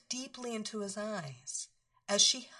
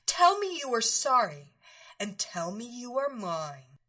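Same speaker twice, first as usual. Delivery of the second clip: demanding; 5 dB louder than usual. Acted. Mistress demands his apology.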